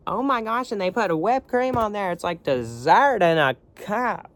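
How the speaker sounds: very high, loud, gushing mom voice; Linda Belcher impression. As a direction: squeal about the whipped cream like a kid. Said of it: "she'd be like".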